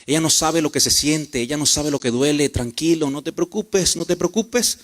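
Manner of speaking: put-on gently calm a hurt child; soothing mother. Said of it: "consuela al niño".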